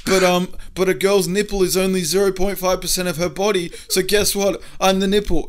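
hammed-up nerdy friend impression; mocking impression. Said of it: "Baz is like".

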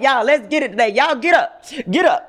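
upbeat rallying call to the crowd; hype call. Retold or imitated. Host hyping her morning viewers to get up, upbeat. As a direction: fire up the viewers, lively and bright. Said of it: "laughing and dancing like".

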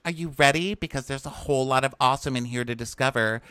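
put-on high, cutesy baby talk. Contestant talking to the Bachelor in high mock baby voice. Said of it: "She talks in baby voice".

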